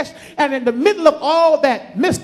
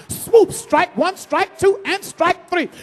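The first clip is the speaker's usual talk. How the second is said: slow strike count; 4 semitones higher, slower than usual. Acted. Sermon strike sequence.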